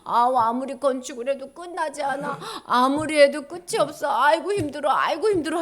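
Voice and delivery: acted groaning exhaustion; weary complaint. Builders tired of endless temple work, weary moaning. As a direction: grumble as if worn out, hammed-up. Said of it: "힘이 들어가지고".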